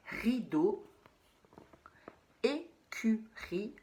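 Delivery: écurie whispered slowly, syllable by syllable. Shown as a demonstration. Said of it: "L'écurie, c'est l'endroit". (écurie chuchoté lentement, syllabe par syllabe)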